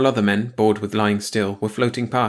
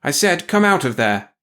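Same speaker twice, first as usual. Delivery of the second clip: raised, sharp repeat of an order; a sharper, raised command; 5 semitones higher, 4 dB louder than usual. Acted. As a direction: bark it again, louder and higher. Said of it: "She said again more sharply".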